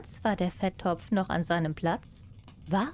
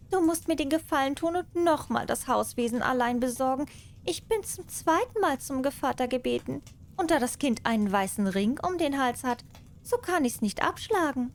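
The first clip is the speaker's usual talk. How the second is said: higher, quick wheedling cat; 6 semitones higher, faster than usual. Acted. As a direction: coax the mouse sweetly as the cat. Cat asks mouse a favour.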